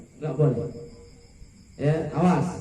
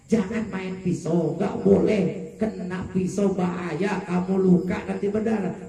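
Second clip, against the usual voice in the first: put-on slow, slightly raised warning to a child; acted parent's drawn-out warning; parental warning; 4 semitones higher, slower than usual. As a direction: caution a child, stretching out the words.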